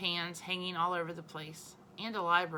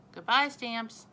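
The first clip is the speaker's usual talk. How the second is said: loud cheerful call; calling from the doorway; 5 semitones higher, 6 dB louder, slower than usual. A narrator's reading. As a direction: wave the stamps off, calling out. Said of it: "Fudge called from the doorway".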